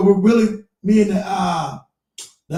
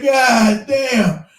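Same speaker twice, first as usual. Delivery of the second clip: exasperated god damn; 4 semitones higher, 4 dB louder than usual. Retold or imitated. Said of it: "I said".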